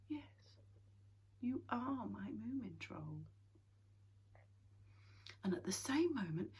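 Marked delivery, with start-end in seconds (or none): 0.1-3.3 quietly. A narrator's reading. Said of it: "she said quietly".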